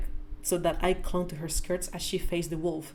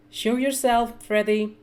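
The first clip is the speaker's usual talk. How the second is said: louder call into the trees; 5 semitones higher, 6 dB louder, slower than usual. Acted. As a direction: call him out of hiding, louder. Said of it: "called Mother".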